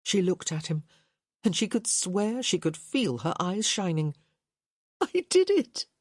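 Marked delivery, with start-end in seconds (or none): 5.0-5.9 high, loud laughing cry; crazed laugh. A narrator's reading. Hyacinth to Gareth, laughing almost crazily. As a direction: laugh it out, half mad with joy. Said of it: "She laughed, almost crazily".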